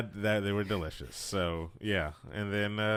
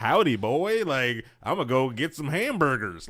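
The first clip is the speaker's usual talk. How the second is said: loud hammed-up Texan accent; mock Texan; 5 semitones higher, 6 dB louder than usual. Mocking how Americans get played, in a Texan accent. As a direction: ham up a Texan drawl, higher and louder. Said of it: "or were Texans".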